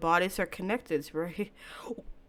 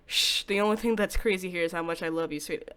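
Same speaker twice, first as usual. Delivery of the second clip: a hint of a hushed, menacing lover; lightly voiced calm stalker, soothing and sinister. Takuya voiced again.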